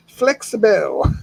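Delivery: Flexible stretched slow, each syllable drawn out. Shown as a demonstration. Repeating his own word for the stream, slow and drawn out. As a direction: savor the word Flexible, slowly. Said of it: "I'm flexible".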